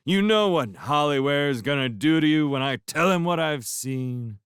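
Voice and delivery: loud, high mock threat; drunken threat. A narrator's reading. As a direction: threaten with hammy glee. Drunk Lewis threatening Crow.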